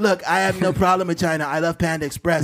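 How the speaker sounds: self-assured presidential parody; Donald Trump. Acted. President denying a problem with China, Trump impression. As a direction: reassure in short emphatic phrases. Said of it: "Donald Trump s-, talks in, like, bullet points".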